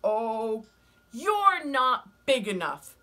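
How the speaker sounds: loud, high, slow and sneering; scornful ladybug voice. Acted. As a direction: dismiss them from up high.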